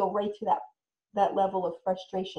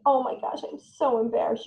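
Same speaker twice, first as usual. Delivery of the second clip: mock embarrassed; 3 semitones higher than usual. Shown as a demonstration. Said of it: "You can model it".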